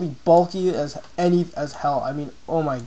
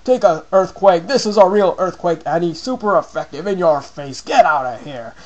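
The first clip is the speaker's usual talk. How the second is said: louder, mocking taunt at the opponent; taunting brag; 3 dB louder than usual. Player taunting Annie after his Earthquake, loud gloating. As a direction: gloat over a super effective hit. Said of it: "I'm like".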